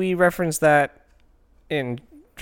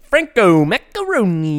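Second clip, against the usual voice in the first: slow, louder, relishing the name; savoring a name; 6 semitones higher, 5 dB louder, slower than usual. Pretend. Savouring a silly name.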